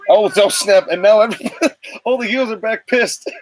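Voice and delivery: thrilled, with a laugh breaking in; excited. Real, not acted. Reacting to the heels storming back.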